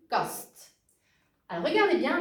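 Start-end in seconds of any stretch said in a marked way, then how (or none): 0.1-0.8 "kast" with a short A; short Dutch A in "kast"; short vowel. Shown as a demonstration. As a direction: say "kast" with the A held back by the consonants. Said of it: "le A ici est un son court".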